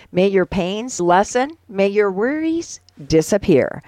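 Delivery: prayer reading. Acted. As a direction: read each wish as a separate blessing, unhurried. Reads out seven prayers.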